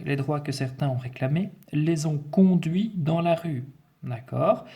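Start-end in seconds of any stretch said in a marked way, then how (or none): 0.0-3.6 raised, measured teacher's read-aloud; projected dictation voice. Acted. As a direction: read the sentence out to a class. Reads the dictation text aloud.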